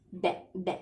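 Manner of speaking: "Be, be" as two short syllables with an "ay"-like e; "Be, be" as in French bébé; French pronunciation of bébé. Shown as a demonstration. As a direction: say "Be, be" with the accented French e, not ee. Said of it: "How is it pronounced?".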